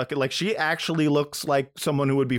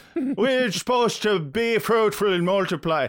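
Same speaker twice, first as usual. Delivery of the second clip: fake, put-on Irish accent, higher pitch; 7 semitones higher than usual. Imitating a TV character's excuse, put-on Irish accent. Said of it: "am I doing a good Irish accent?".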